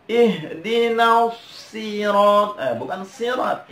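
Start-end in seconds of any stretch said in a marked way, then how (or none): 0.1-2.5 SIRAT chanted with a light sin, not sad; wrong thin s. Shown as a demonstration. Teacher imitates most people's mistake, thin s. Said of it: "kebanyakan orang juga baca". 3.1-3.7 SIRAT spoken with a light s; wrong thin s. Shown as a demonstration. Teacher points out the mistake, thin s. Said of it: "Ini bukan sin".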